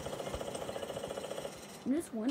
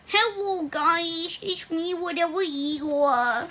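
put-on pitched-up toddler voice effect; voice changer; 4 dB quieter, slower than usual. Shown as a demonstration. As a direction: kid voice through a voice changer. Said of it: "Definitely not using a voice changer".

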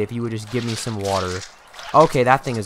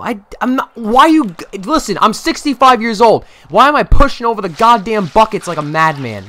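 mock old man rant; 8 semitones higher, 8 dB louder than usual. Ranting as his old janitor.

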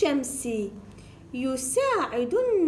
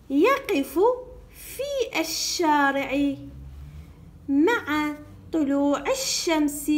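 fluent reading; 2 semitones higher, slower than usual. Shown as a demonstration. Teacher reading the whole lesson in one go, fluently. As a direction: read it in one go without spelling out. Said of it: "دفعة واحدة بدون تهجي".

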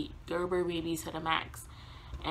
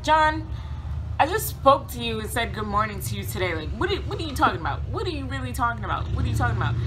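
incredulous protest; 4 semitones higher, 4 dB louder, faster than usual. Retold or imitated. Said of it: "And I was like".

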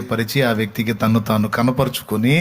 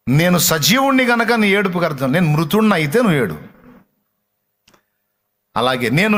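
full-force preaching; 8 semitones higher than usual. Acted. Preacher voices Jesus comforting the weeping woman, fervent. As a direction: proclaim it with rising power.

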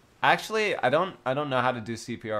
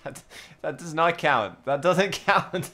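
laughing protest; 3 semitones higher than usual. Real, not acted.

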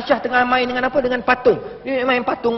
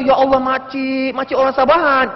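acted delighted greeting. Preacher greeting an auntie from Sabah, acted delight. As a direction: lay on the friendly surprise, stretched out.

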